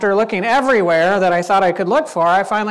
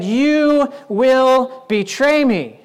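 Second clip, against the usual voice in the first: solemn pronouncement; much slower than usual. Acted. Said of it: "looked him in the eyes".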